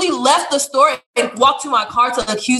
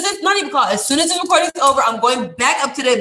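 raised, shouting vow to go back; fired-up vow; 3 semitones higher than usual. Real, not acted. Vowing to confront the cashier, half-shouted.

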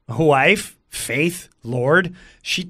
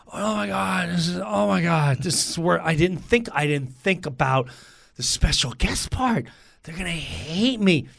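dawning dread; 5 dB quieter than usual. Retold or imitated. His own dread after crowd's frenzy.

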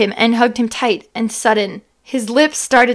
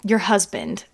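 softly; 4 semitones lower, 8 dB quieter than usual. Acted. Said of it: "he said softly".

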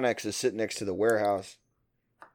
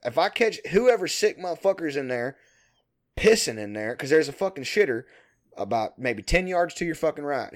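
mildly worked-up imitation of a ranting foreman; griping foreman; 3 semitones higher than usual. Foreman threatening whoever pisses in the Connex, mock griping. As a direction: grumble out a threat, mock-irritated. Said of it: "he was always bitching about it".

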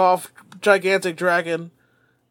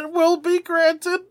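slow, higher solemn pronouncement; wish-granting dragon; 9 semitones higher than usual. Acted.

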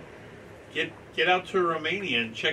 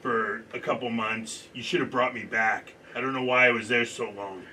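Brett Griner; 3 dB louder than usual. Acted. Athlete complaining to interviewer about being left, lightly imitated. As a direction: play the interviewed player, lightly voiced. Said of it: "I'm gonna play Brett, Brett Griner real quick".

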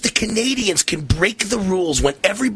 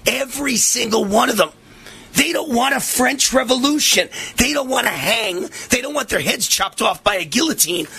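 building to a shout; 6 semitones higher than usual. Real, not acted. Ranting host escalating to a yell.

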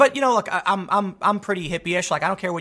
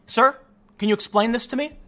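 higher-pitched cop confronting a suspect; lightly voiced officer, raised pitch; questioning cop; 4 semitones higher than usual. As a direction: press for an explanation, pitched up. Cop confronting him, acted out.

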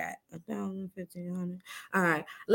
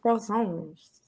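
throaty French r in croissants; French accent; 3 semitones lower, 5 dB quieter than usual. Shown as a demonstration. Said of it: "Get a little something in your throat when you say croissants".

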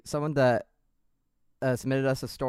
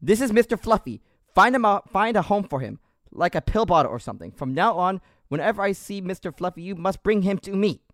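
high mock French Canadian sergeant, formal; 4 semitones higher than usual. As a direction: hand over the fuzz with mock ceremony, French Canadian accent. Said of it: "with this accent".

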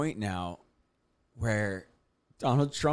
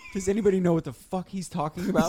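mock exasperated fan; 6 semitones higher than usual. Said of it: "They're like".

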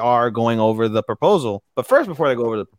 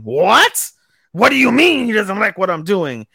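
higher, louder alarmed protest; mock alarm; 6 semitones higher, 5 dB louder than usual. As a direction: play the shocked servant. Quoting alarmed servant.

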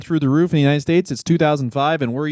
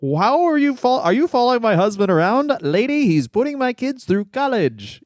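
Simpsons hot dog guy bit; 7 semitones higher than usual. Retold or imitated. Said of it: "that Simpsons episode where it's like".

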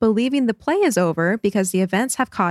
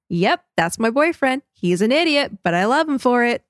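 lightly voiced proud girlfriend, higher; affectionate teasing, pitched up a little; fond girlfriend; 4 semitones higher than usual. Suki watching her boyfriend freak out, fondly resigned. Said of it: "cute little smile ... says".

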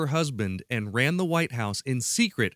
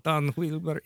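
higher, lighter mock-Russian name; high-pitched Russian; 3 semitones higher than usual. Shown as a demonstration. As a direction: demo of a too-high Russian accent. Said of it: "you can't do a high pitch thing".

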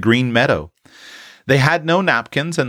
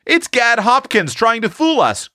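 disgusted; 13 semitones higher than usual. Acted. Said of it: "much disgusted at the loss of his prey".

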